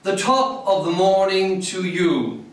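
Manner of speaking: put-on restrained call from an old English poem; English poem reading. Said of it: "It doesn't sound the same".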